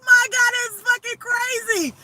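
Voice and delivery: high, laughing disbelief; overwhelmed excitement. Real, not acted. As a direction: still buzzing from the shock. Still overwhelmed after the reveal.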